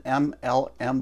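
M L M spelled out deliberately; slow and careful. Real, not acted. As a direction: space out each letter to avoid slurring. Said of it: "I have to say that slow".

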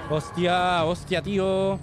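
sudden loud, high gasp of shock; real fright blurted out loud; startled swearing. Real, not acted. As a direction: caught off guard by a jump scare.

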